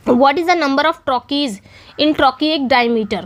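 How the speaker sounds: reads the question very slowly, word by word; slow question reading. Shown as a demonstration. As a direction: spell the question out slowly for the class. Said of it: "reading out the quiz question". (प्रश्न को बहुत धीरे पढ़ना)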